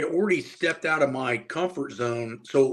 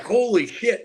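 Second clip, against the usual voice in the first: higher mock-stunned exclamation; a teen realizing his luck, stunned; amazed; 8 semitones higher, 4 dB louder, slower than usual. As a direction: let the awe pop out. Retold amazement.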